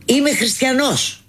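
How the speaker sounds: proud declaration. Retold or imitated. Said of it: "Πήγαινες και έλεγες".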